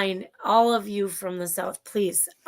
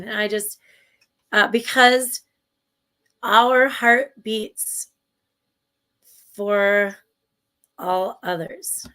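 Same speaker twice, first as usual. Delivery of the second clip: slow, drawn-out inspirational preacher delivery; imitating Josh; 4 dB louder, slower than usual. Host imitates speaker's heartfelt line, slow and earnest. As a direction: stretch it like a moving sermon. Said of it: "I think that's how he said it".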